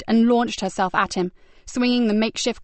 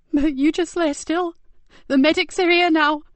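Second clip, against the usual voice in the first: urgent tearful urging; 7 semitones higher, 4 dB louder than usual. Acted.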